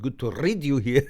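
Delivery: amused imitation of own Scottish slip; light Scottish accent, laughing at it. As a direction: play up the Scottish lilt a little. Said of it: "Scottish accent when I said".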